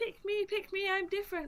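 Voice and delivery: high, mock pick-me-girl voice.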